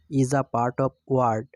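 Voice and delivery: very slow, word by word; slow, spaced teacher dictation. Shown as a demonstration. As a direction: dictate the definition so students can write it. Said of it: "teacher dictating definition".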